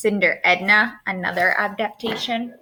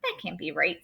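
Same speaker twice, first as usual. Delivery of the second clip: fairy doubts; 5 semitones lower, 7 dB quieter than usual. Acted. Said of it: "said the fairy".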